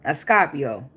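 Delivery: put-on "Scorpio" with the first r dropped, in a Southern accent; imitated Southern accent. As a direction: mimic a Southern "Scorpio" as "Scah-pio". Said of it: "you even type in your accent".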